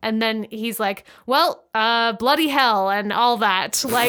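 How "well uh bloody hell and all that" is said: mock British. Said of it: "that's exactly what this scene is".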